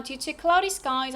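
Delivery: "due to cloudy skies" lifted at "skies"; rising intonation. Shown as a demonstration. Teacher repeats the delay reason for students, rising on "skies". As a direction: keep "skies" up, unfinished. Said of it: "하면서 억양은 올라가고요".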